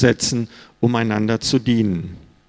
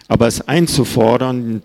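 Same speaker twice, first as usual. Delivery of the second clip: einzufordern leaned on, the word pressed out firmly; stress on einfordern. Shown as a demonstration. Preacher warning the church against demanding service, stressing einzufordern. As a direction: give einzufordern the weight of the sentence. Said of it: "die Betonung liegt hier auf einfordern".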